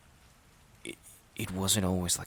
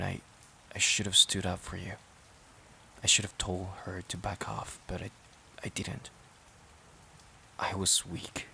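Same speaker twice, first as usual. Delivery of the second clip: hushed and guilty, much softer; remorseful confession; 8 dB quieter than usual. Acted. Partner admits he never defended her from his mom, hushed and remorseful. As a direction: drop the voice to admit you failed her.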